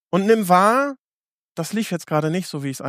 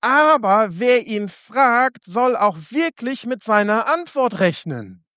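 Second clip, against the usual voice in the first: each word drawn out slowly and solemnly; slow scripture reading; 2 semitones higher, slower than usual. Shown as a demonstration. Preacher reading the Bible verse to the congregation, slow and solemn. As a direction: read the verse slowly, letting it sink in. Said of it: "in Jakobus eins geht's noch weiter".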